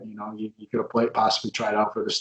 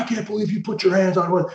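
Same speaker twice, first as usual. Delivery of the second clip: higher-pitched imitation of shocked onlookers; mock outraged disbelief; 8 semitones higher than usual. People in the locker room react, in imitated shocked disbelief. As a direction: act lightly aghast, pitched up.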